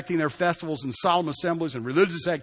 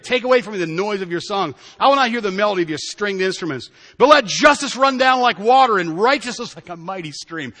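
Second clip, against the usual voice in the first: forceful scripture preaching; 4 semitones higher, 7 dB louder than usual. Acted.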